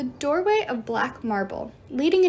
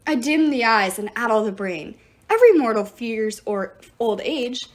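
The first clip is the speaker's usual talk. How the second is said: put-on menacing old god; 5 dB louder than usual. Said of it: "snarled Jairus".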